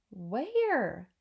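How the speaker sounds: drawn-out puzzled question; a searching father's swooping call; mildly exasperated searching; baffled call. Acted. Father searching for invisible boy.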